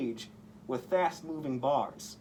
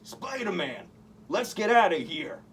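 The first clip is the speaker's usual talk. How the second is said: thug yelling; 4 semitones higher, 4 dB louder than usual. A narrator's reading. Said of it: "yelled one of the men".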